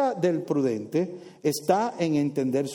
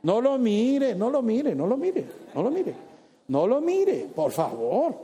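playful warning; 3 semitones higher than usual. Acted. Telling crowd not to look.

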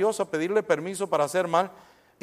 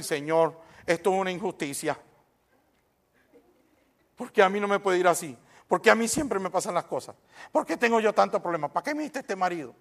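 mock complaining prayer; 4 dB quieter than usual. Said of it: "pero sí le va a decir".

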